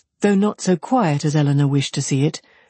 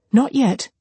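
higher-pitched, contained reassurance; concealed terror; 7 semitones higher than usual. A narrator's reading. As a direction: answer quickly to soothe, hiding fear. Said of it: "cried the other, concealing her terror".

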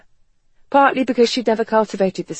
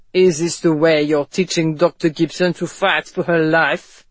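sarcastic; 2 semitones lower, 3 dB louder than usual. A narrator's reading. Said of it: "he asked sarcastically".

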